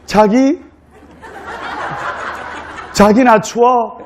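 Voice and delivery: lightly acted Seoul bride, drawn-out plea; Seoul accent. Cold bride appeals to her groom in Seoul speech. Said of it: "서울말로".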